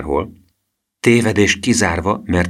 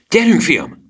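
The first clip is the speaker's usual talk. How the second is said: much higher and louder, a cheery shout; shouted call; 12 semitones higher, 6 dB louder, slower than usual. Acted. Gusztáv shouting to Emil to come along. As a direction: call out to the friend boldly. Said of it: "kiáltotta Gusztáv".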